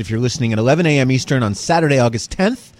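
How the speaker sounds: put-on slipping into a light posh British accent while hosting; a half-put-on posh British host voice; mock posh British. Host opens his podcast in an accidental, mildly posh British accent. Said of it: "You sound very posh".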